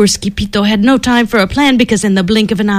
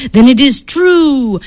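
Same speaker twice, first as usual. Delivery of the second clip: slow, loud proclamation; decreeing; 4 semitones higher, 5 dB louder, slower than usual. Acted. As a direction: declare it like a solemn chief. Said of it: "decreed Don Diego".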